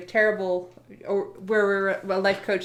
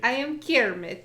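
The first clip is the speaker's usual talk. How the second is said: put-on Russian Kermit accent; 3 semitones higher than usual. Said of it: "sounds like you with a Russian accent".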